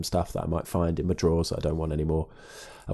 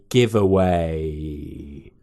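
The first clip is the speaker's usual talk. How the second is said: spooky voice; 4 semitones lower, much slower than usual. Acted. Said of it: "'Cause you're doing the spooky voice".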